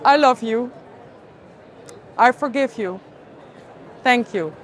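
measured mantra with long pauses; guided mantra. Real, not acted. Speaker leads listeners through a healing exercise, guided mantra. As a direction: leave space for listeners to repeat each phrase.

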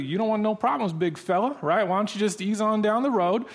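playfully voiced warning to move along; mock dismissive. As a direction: send a nuisance on his way, half in jest. Big schools brushing off the chaplain.

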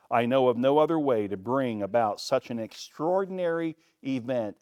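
David vows to leave it to God, emphatic. Acted. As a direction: drive each claim home. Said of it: "David added emphatically".

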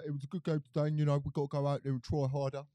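put-on footballer post-match interview; Harry Kane. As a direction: imitate a footballer reviewing the game. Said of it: "I was gonna say Harry Kane".

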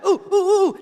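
high, loud, urgent begging to be picked; frantic classroom volunteer; Horshack. Acted. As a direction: squeal like an over-eager pupil.

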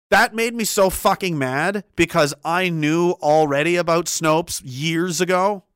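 normal talking voice

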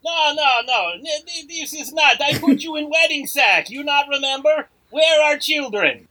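Borat. Acted. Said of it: "uh, Borat".

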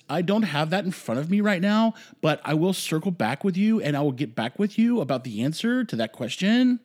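hammed-up condescending press briefing voice; condescending imitation. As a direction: talk down to the press like the circle back girl. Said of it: "her voice goes up, and it sounds very condescending".

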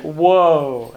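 amazed whoa. Real, not acted. Amazed at the hermit's promise.

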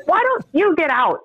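retold urging. Old guy urging her out.

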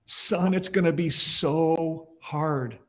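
slow, drawn-out retelling of a tearful warning; mildly choked up. Retold or imitated. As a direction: imitate a choked-up old man, lightly, dragging the words. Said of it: "he's choked up".

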